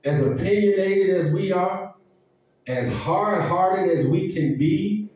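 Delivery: whooping preacher climbing line by line; preaching cadence. Acted. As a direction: build the list into a sung preach. Preaching build into chant.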